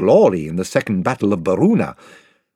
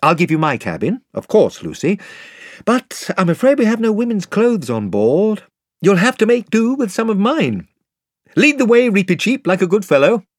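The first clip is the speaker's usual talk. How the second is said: higher, lively, friendly host voice; hearty young king; 10 semitones higher, 4 dB louder than usual. Acted. Caspian welcoming the wet children below, hearty. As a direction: offer it like a generous young host.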